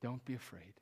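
softly voiced calming reply; lightly acted, soft and settled comfort; gentle reassurance. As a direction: reassure frightened brothers quietly. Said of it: "this is how Joe responds".

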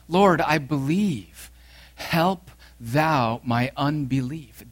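slow, tearful plea to Christ; tearful cry. Acted. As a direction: stretch it out like a broken father. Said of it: "he cried out in tears".

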